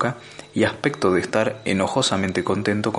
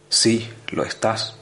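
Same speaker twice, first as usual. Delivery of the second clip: whispered, slow and knowing; unvoiced reply; slower than usual. Ford whispering to scared Arthur, slow and sure. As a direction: breathe it out calmly.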